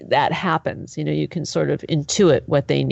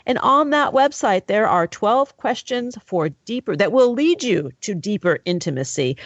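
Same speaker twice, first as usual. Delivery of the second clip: steady host plug read; host signing off the show; radio outro read. Acted. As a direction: read the book and website clearly. Host reads closing plug.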